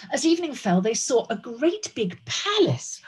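lilting, animated read-aloud; story narration. A narrator's reading. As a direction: tell it to children with long, drawn words.

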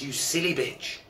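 farmer yelling at his wife, a fairly angry rant. Retold or imitated. Furious farmer yells at wife.

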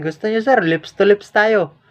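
slow, drawn-out teasing offer; cheeky dare. Retold or imitated. Daring the commander to smell his breath, slow tease. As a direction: dare him playfully, stretching the words.

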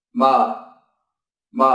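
"m" hummed with closed lips; isolated m sound. Shown as a demonstration. Teacher humming the "m" sound for learners. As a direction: hum "m". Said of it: "phát âm là m".

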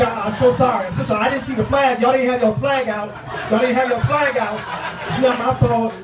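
hurried nervous apology. Acted. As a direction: back out apologizing fast. Sorry, walking into meeting.

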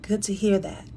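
soft breathy whisper of the phrase. Real, not acted. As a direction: whisper it close to the mic.

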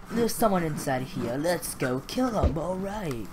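slow, drawn-out play voice; odd put-on voice. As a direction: stretch it out in a silly voice. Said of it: "why I'm talking like this".

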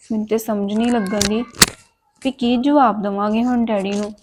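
softly lamenting to herself; soft worried sigh to herself; quiet aside. Acted. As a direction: murmur the worry under her breath. Sister sighing to herself alone.

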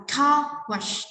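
"car" lifted and stressed, "wash" falling away. Shown as a demonstration. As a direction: slowly model "car wash", weight on "car". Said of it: "chúng ta lên giọng ở car".

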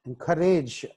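ఎంకరేజ్ with the stress on "cour"; teacher's ఎంకరేజ్, "cour" stressed. Shown as a demonstration. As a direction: lean on the middle of ఎంకరేజ్. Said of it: "సి దగ్గర".

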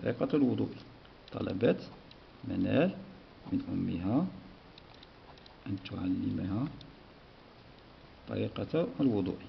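teacher dictating the answer to the class; dictation. Shown as a demonstration. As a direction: dictate each word for pupils to write. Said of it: "dictating the answer to write".

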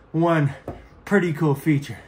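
slightly winded, breathy phrasing; out of breath. Real, not acted. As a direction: talk a little winded after moving. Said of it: "I'm out of breath".

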